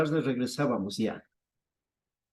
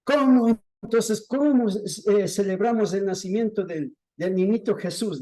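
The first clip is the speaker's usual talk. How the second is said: raised, higher indignant voice; imitated indignation; 5 semitones higher than usual. Woman protesting her celebration was refused, imitated indignation. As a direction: act out an offended protest, moderately heated. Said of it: "se enfureció".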